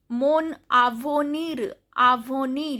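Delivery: careful "avenir" ending on r; "avenir" as a teacher's French model; pronounced final R. Shown as a demonstration. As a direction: say "mon avenir" distinctly, sounding the R. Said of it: "R is also pronounced".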